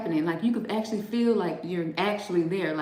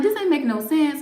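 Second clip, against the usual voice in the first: laughing; 6 semitones higher, 4 dB louder than usual. Retold or imitated. Retelling confused vision, laughing.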